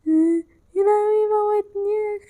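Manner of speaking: high yelp as she gets caught; startled cry. Real, not acted. Gamer killed by the clown, crying out in shock. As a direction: cry out in real fright. Clown catches and kills her.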